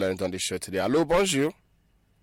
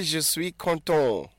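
put-on "Je suis content" slowly, each syllable clear for a child to copy; slow model phrase; 4 semitones higher, slower than usual. Shown as a demonstration. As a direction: spell it out slowly like a teacher.

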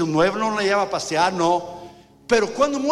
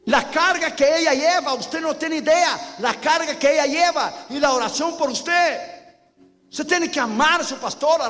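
preaching at full force; 7 semitones higher than usual. Acted. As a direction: preach it hard, voice raised high.

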